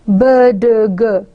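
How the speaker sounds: B, d, g as separate voiced stops; isolated voiced stops. Shown as a demonstration. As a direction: sound out B, d, g one at a time. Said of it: "becomes a voiced stop".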